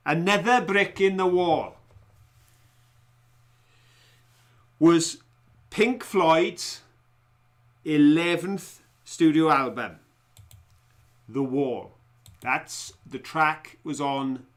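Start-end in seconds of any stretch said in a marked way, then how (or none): 0.1-11.9 louder, halting quizmaster delivery; quiz question read-out. Real, not acted. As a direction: announce the question in separated phrases. Reads quiz question aloud.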